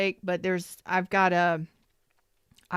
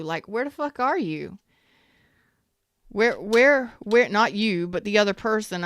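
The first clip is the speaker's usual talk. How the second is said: irritated outburst; 4 dB louder than usual. Real, not acted. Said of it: "I'm getting pissed".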